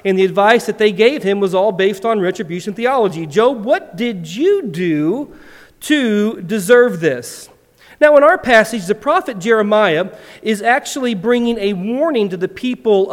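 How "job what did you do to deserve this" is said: accusing friend. Acted. Job's friends accusing him.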